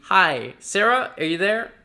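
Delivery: loud, bright, rising hello; smiling greeting. Shown as a demonstration. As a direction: say it with a big smile. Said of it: "smile, and say".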